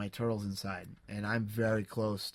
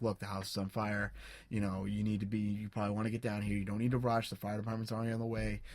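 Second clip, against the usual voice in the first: calm reassurance. Retold or imitated. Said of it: "talking to her very calmly".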